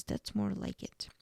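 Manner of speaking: a breathy whispered line. Retold or imitated. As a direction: Catherine whispering to Damon, sultry hush. Catherine's seductive line, retold.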